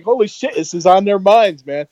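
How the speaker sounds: high, stunned exclamation; shocked. Retold or imitated. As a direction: gasp it out in disbelief. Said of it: "I was shocked".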